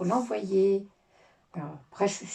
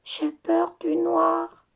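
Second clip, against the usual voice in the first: put-on scared little boy; 9 semitones higher, much slower than usual. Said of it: "explique le petit garçon".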